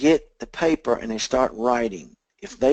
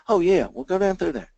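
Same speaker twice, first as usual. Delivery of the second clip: prospect voice; 8 semitones higher, 3 dB louder than usual. Retold or imitated. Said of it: "prospect's quoted reply".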